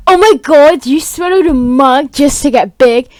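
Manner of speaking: a touch of mock outrage; mildly shocked giant wife. Giant wife scolds him for swallowing a mug, mild outrage. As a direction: voice a scolding wife, opening high and loud. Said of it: "the new giant wife, is like".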